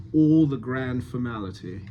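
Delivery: "all" with rounded lips. Shown as a demonstration. Coach models the line for an actor, rounded "all". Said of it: "So more rounding on all".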